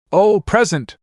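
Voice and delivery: high, eager gasp at a present; girl thrilled at a surprise gift; excited squeal. Acted. Star gets a gift from her boyfriend, squealing with delight.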